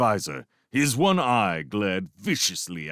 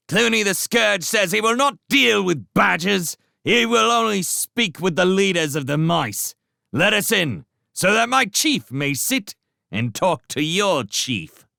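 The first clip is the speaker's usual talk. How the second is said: rat herald; 12 semitones higher, 4 dB louder than usual. Acted. Redtooth relaying Clooney's terms to the walls, high herald call. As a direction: proclaim the chief's terms upward.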